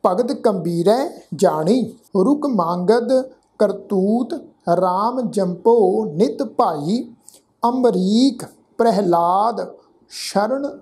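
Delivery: slow, measured verse reading; scripture recitation. Shown as a demonstration. Teacher reciting Gurbani for the congregation, slow and measured. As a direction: recite word by word with held vowels.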